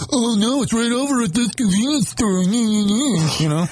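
high, chirpy know-it-all helper; helpful voice. Retold or imitated. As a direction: sing it out like an eager helper. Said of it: "That's a helpful voice".

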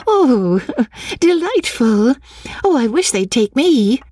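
high, delighted laughing exclamation; breaking into delighted laughter; laughing heartily. A narrator's reading. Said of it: "She laughed heartily".

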